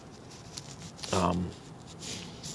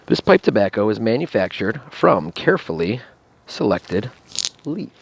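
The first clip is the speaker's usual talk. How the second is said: reading the label out, a bit louder; reading a label aloud; 3 semitones higher, 6 dB louder than usual. Real, not acted. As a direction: read it like a product label. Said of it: "read this to you".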